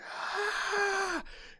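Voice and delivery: drawn-out, high-pitched yell; battle yell. Acted. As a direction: let out a charging war cry, held long. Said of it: "a yell of her own".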